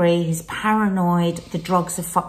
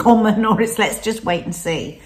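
higher, brighter reassurance that fades at the end; reassuring herself; 4 semitones higher, 3 dB louder than usual. Retold or imitated. Wife reassuring anxious husband, higher and lighter. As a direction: talk him round lightly. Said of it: "I'm having to keep going".

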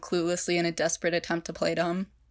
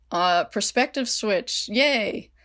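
high, bright mock-cheerful yay; slow, then a squeaky cheerful yay; cheery aside; 4 semitones higher, 5 dB louder, much slower than usual. Real, not acted. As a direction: perk up for a silly author aside. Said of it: "author aside, cheery".

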